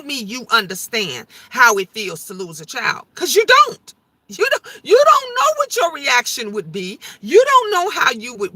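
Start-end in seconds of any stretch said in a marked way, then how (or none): 3.2-8.5 real tears pushing through the words; choked up while making a point; crying. Real, not acted. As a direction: voice breaking into tears, higher and louder. Breaks down over losing a child.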